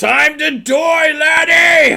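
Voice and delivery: shrill, full-throated dwarf scream, very high and very loud. Narrating the game, a dwarf riding a wyvern screams down at a player. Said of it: "the dwarf screams down at you".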